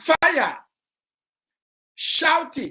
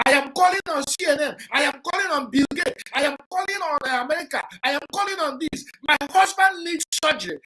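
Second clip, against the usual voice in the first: rapid, raised plea to the world, voicing the wife; mock urgent appeal; 3 semitones higher, faster than usual. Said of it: "shouting to the world".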